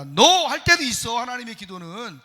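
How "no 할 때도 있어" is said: sharp no. Retold or imitated. Shouted No as God's refusal.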